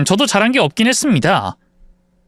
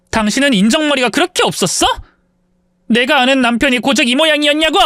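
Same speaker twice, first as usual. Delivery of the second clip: angry, higher raised voice at her husband; yelling at husband; 4 semitones higher than usual. Acted. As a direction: tell him off, voice climbing in fury. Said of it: "남편에게 큰 소리 쳤습니다". (남편에게 화내며 높아진 목소리로 따지기)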